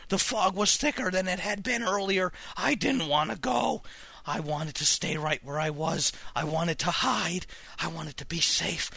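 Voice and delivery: narrate, calming from upset to resigned; somber story narration. A narrator's reading. Reads horror story aloud.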